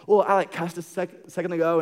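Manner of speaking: sheepish confession. Retold or imitated. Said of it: "they're like".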